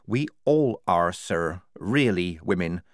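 slow, patient explanation; mildly weary confession; sighing. A narrator's reading. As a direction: explain slowly, with a touch of a sigh. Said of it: "Polly sighed".

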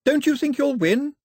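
high, loud taunt; shout. A narrator's reading. Daphne goads Cox above the hubbub, high shouting. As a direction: call it out over the noise. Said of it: "Daphne shouted above the hubbub".

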